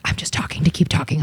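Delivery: hushed, breathy aside; whisper. Retold or imitated. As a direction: whisper it so only your friend hears. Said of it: "Lisa whispers to me".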